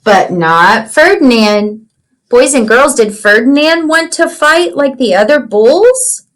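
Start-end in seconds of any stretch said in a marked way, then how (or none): 0.0-1.9 storybook reading. Acted. Teacher reads picture book aloud.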